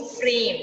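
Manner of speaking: फ्रेम with a clear fricative f, teeth on lip; nukta sound in frame. Shown as a demonstration. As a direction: say फ्रेम with friction on the f. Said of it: "ज की आवाज आते हुए".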